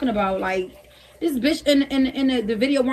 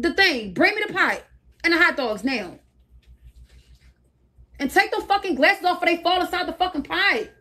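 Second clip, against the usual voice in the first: high, raised voice barking orders at a friend; impatient higher shouted commands; bossy yelling orders; 4 semitones higher than usual. Real, not acted. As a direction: boss her around, exasperated and pitched up. Bossing friend through hot dog contest.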